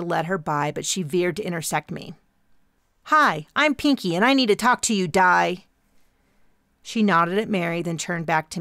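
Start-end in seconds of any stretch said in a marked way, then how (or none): 3.0-5.6 intense activist voice. Acted. Intense young activist character.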